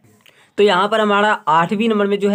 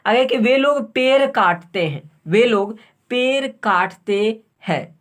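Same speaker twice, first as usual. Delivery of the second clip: slow dictation; 3 semitones higher than usual. Shown as a demonstration. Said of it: "dictating sentence".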